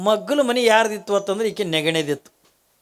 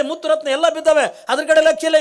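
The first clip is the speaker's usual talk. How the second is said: usual speaking voice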